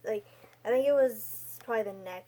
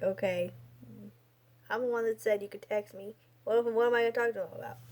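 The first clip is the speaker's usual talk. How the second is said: fast, nervous inner rush; racing through worried thoughts; much faster than usual. Retold or imitated. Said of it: "I start getting nervous".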